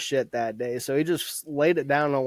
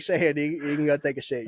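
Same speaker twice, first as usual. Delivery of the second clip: laughing through quote. Retold or imitated. Teller cracking up while quoting the drill sergeant, laughing.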